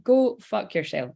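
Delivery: slow, relished Scottish swearing; drawn-out Scottish put-down; Scottish accent. Shown as a demonstration. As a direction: savour the curse in Scottish. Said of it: "sounds great in a Scottish accent".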